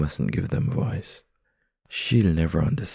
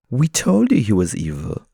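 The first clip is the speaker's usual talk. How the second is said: higher, louder cat voice; 5 semitones higher, 6 dB louder than usual. Acted. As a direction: another cat gloating. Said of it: "said another".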